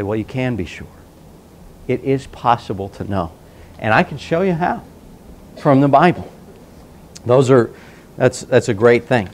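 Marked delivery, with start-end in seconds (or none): 0.0-6.3 softer, gentle reassurance; calm them, it is possible to know; soft-spoken witness reassuring a doubter. Retold or imitated.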